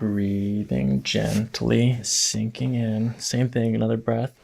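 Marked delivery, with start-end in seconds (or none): 0.0-3.2 very slow, calm and gentle; slow soothing voice. Acted. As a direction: ease them down, slowly. Soothing the patient into breath.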